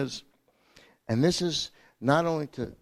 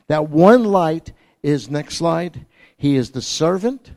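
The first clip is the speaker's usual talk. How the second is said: louder, ringing preaching; loud joyful proclamation; rising proclamation; 8 dB louder than usual. Acted. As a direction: lift the room with it.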